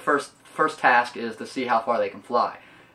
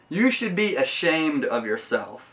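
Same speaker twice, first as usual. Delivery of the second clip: slow, drawn-out reproach, higher pitch; indignant scolding; 4 semitones higher than usual. Retold or imitated. The speaker scolding Santa, slow indignant reproach. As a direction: scold him slowly, word by word. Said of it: "I was like".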